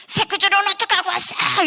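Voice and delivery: high, loud scolding stepmother; angry stepmother. Retold or imitated. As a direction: snap at the husband accusingly. Stepmother scolding father sharply.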